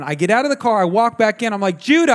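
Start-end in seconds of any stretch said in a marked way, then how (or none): 1.8-2.1 high, loud mock yell for a child; re-enacted exasperated shout; retold scream. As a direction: holler the name like a fed-up dad. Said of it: "I scream him".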